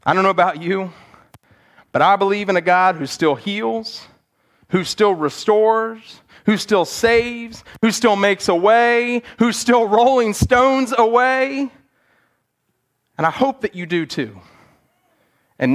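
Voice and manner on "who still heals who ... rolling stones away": slow, building proclamation; preacher rising to a confident climax; preaching build. Acted. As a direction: lean into each "who still".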